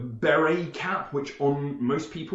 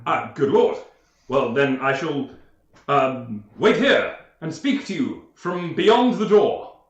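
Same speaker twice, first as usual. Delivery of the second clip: gentleman voice; 4 dB louder than usual. Acted.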